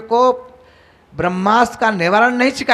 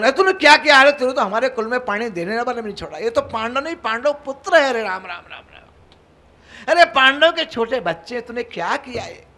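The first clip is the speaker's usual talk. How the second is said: mock tearful reproach, fading out; acted weeping lament; 3 semitones higher than usual. Duryodhana to friend over the slain children, tearful lament. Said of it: "रो पड़ा दुर्योधन".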